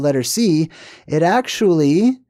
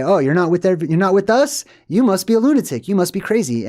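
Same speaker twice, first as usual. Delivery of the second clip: higher-pitched mock disbelief; mock accusation; 5 semitones higher than usual. Voicing those who call you crazy, mock accusing. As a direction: imitate scandalized accusers, pitch climbing.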